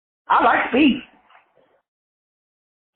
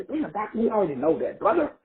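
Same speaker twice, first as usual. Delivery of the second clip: mock audience voice; 2 semitones higher, 6 dB quieter than usual. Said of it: "y'all should be saying to yourself".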